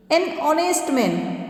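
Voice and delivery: slow, careful एन ऑनेस्ट मैन; slow example. Shown as a demonstration. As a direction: model the phrase for students. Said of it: "हम एन लगाएंगे".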